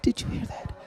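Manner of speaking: hushed whisper. Acted. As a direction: whisper it conspiratorially. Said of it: "said twice, whisper then loud".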